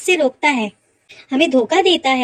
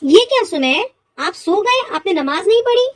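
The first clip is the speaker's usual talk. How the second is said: higher, questioning disbelief; dismayed surprise; 4 semitones higher than usual. Acted. Mother finding son asleep without praying, dismayed. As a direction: question them in startled reproach.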